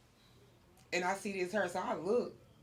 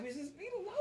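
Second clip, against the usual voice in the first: softer, higher hushed aside; hushed excited aside; 7 semitones higher, 15 dB quieter, faster than usual. Retold or imitated. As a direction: whisper it so she won't hear. Whispered aside seeing celebrity.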